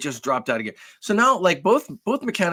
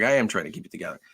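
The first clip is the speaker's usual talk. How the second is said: real strain; 7 semitones lower, 4 dB quieter, much faster than usual. Real, not acted. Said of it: "that wasn't acting".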